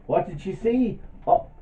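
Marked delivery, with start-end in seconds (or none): 1.3-1.5 high, loud, drawn-out astonishment; amazed reveal. Pretend. Storyteller telling children what she saw, wildly amazed. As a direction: build to a huge slow reveal.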